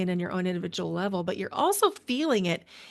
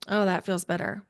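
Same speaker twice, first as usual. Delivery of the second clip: ordinary delivery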